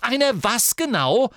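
slow, high, loud dare; Ginny with her wand drawn, daring him; menacing challenge. Acted. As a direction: draw each word out as a threat. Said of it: "rief Ginny und zog ihren Zauberstab".

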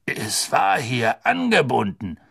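slow, mildly angry insistence; a touch of rage; furious executioner. Acted. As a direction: hangman cheated of his prey. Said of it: "sagte der Henker wutentbrannt".

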